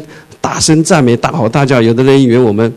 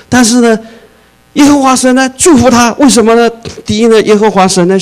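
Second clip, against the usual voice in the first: rising preaching; 10 semitones higher, 5 dB louder than usual. Real, not acted. Preacher raises voice.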